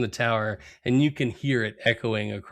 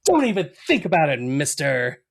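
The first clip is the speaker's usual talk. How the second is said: mail carrier warning; 3 semitones higher than usual. Retold or imitated. Cohost voices mail person catching Homer, quick mock warning. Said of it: "he's like".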